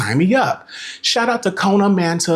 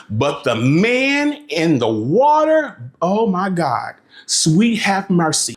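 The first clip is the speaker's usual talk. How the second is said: swooning; 3 semitones higher, much slower than usual. Real, not acted. Swooning over the guide.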